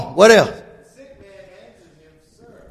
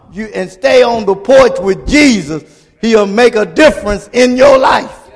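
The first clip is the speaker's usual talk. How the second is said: stirred-up preaching. Acted. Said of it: "y'all getting me stirred up".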